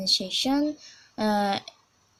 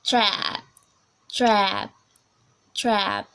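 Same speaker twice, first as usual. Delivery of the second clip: American "trap", stretched "æ" vowel; demonstrated American "trap"; American accent; much slower than usual. Shown as a demonstration. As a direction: draw out the a of "trap" in American English. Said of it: "American, American accent".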